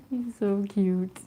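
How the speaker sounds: slow, tender cooing. Real, not acted. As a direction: melt over the cat, slowly. Cooing at the cat.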